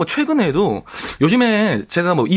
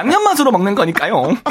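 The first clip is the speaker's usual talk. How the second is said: teasing imitation; 3 semitones higher than usual. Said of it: "많이 번거롭고 혹시 어렵나요".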